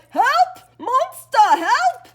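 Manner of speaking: loud high screams of help; panicked cry for help. Acted. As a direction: shriek it like a fleeing coward. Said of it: "The professor cried".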